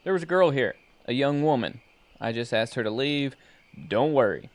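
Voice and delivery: loud, firm report over radio. Acted.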